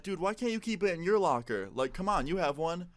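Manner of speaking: acted-out pushback to a friend; exasperated. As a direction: argue back in mild exasperation. Acted argument over the locker.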